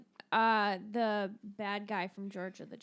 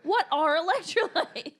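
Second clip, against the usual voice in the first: dumb guy voice; 6 semitones higher, 5 dB louder than usual. Retold or imitated. Idiocracy quote, put-on voice.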